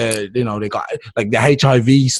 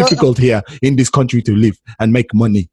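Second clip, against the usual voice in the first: mock Nigerian accent. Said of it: "they talk like this".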